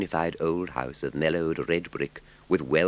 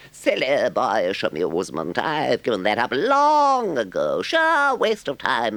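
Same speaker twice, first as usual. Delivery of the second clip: high, slow, gushing toad voice; a much higher, delighted voice; boastful Toad; 7 semitones higher, 5 dB louder, slower than usual. A narrator's reading. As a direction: gush over the visitors. Toad's lines.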